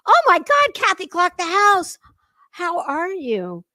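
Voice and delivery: high, loud thrilled shout of recognition; delighted surprise. Real, not acted. Streamer spots a longtime viewer back in chat, thrilled surprise. Greeting an old viewer returning.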